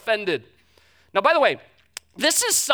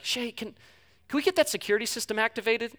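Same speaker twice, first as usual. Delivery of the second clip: soft worried plea; 5 dB quieter than usual. Retold or imitated. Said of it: "She'd look at me and be like".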